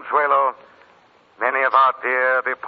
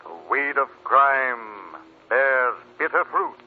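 ominous Shadow voice; slower than usual. Acted. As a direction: intone it like a sinister legend. Shadow's signature closing line.

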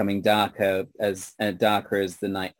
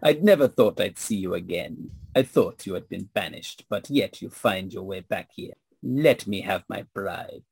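vampire lord voice. Acted.

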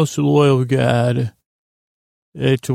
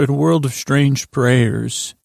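slow, dramatic trailer narrator; movie trailer voice. Acted. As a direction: announce it like an epic film trailer. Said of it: "That was called the movie trailer".

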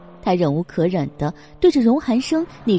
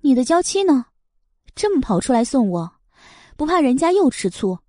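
mocking; 4 semitones higher than usual. Mocking jab at rival.

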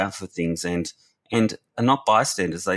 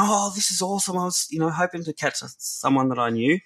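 excited reply; 11 semitones higher than usual. Retold or imitated. Boy meets his old camp leader, excited reply. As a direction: imitate a boy pleased to see you. Boy's retold happy reply.

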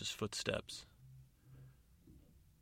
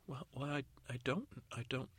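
higher, halting stammer; flustered fairy godmother; 5 semitones higher, 4 dB quieter than usual. Acted. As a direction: stumble over the answer, pitched up. Godmother falters under interrogation.

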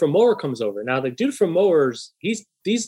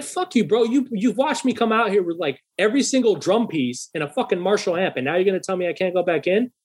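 higher, exasperated rant at the guard; incredulous, raised pitch complaint; retold outrage; 4 semitones higher than usual. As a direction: mimic yourself losing patience. Retold quarrel with security guard.

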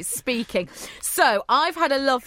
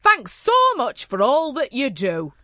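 put-on northern accent. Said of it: "Sorry about that northern accent".

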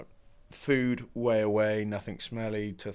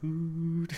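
soft hoot; 8 semitones higher than usual. Retold or imitated. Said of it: "twenty minutes of".

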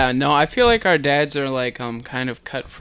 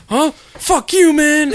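high, loud snotty retort; hammed-up rude teen; mock teen yelling back; 13 semitones higher, 7 dB louder, slower than usual. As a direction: sneer it back like a cocky teenager.

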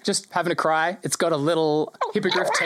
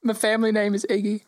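put-on higher, small lost child voice; gnome child voice; 6 semitones higher than usual. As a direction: play a shy little gnome girl.

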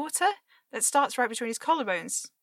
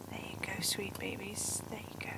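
soft loving whisper; 4 semitones lower, 14 dB quieter than usual. Acted. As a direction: whisper sweetly to a pet. Whispering to cats.

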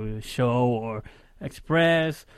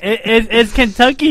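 laughing; 7 semitones higher, 12 dB louder than usual. Real, not acted. Giggling while naming the cat.

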